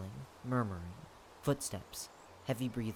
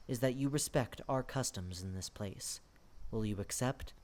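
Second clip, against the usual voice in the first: quietly; 2 semitones lower, 5 dB quieter than usual. Acted. The lord offers a tired guest his house, speaking quietly. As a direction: offer shelter gently, in a measured hush.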